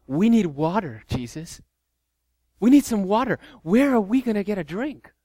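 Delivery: a lightly voiced, complaining disciple; mock their helpless griping; whiny disciples. Disciples by Niagara, mockingly whining for a drink. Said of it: "this is what they sound like".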